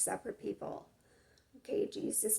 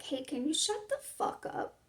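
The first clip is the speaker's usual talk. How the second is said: rude retort; 4 semitones higher than usual. Retold or imitated. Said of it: "Do you see the difference?".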